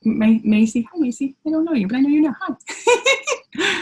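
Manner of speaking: ordinary talk, nothing marked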